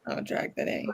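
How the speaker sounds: breathy whisper aside. Real, not acted. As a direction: whisper it to yourself. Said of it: "whispered aside".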